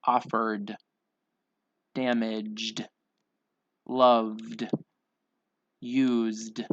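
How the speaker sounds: crisp word list, each ending in a voiced d; measured, one-word-at-a-time pronunciation drill; final D sound. Shown as a demonstration. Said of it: "say the D sound".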